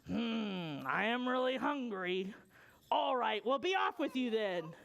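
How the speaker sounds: lightly gruff, hungry troll relenting; grudging troll. Acted. Troll reluctantly lets goat pass.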